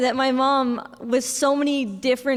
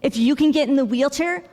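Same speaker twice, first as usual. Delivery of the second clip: high, eager repeated name, then coaxing; excited mom; 4 semitones higher than usual. Retold or imitated. Mom leans over her sick daughter with a surprise, excited and high. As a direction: imitate a mom bursting with a secret. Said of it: "my mom busts open the door".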